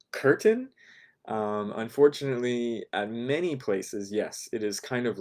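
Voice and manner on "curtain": mock surprise. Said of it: "and think, "Oh my gosh".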